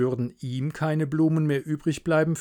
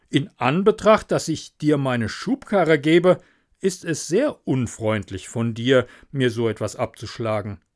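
reproachful miller; 3 dB louder than usual. Acted.

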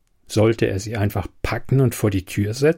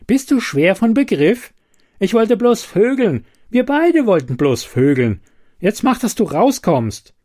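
high, loud furious outburst; 9 semitones higher, 3 dB louder than usual. A narrator's reading. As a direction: shout at her, furious. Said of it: "korrigierte er wütend".

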